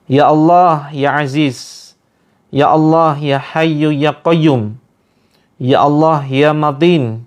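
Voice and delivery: fervent prayer rising into commands against the jinn; ruqyah prayer. Acted. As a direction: pray earnestly, then address the jinn with growing force. (doa ruqyah yang makin keras menghardik jin)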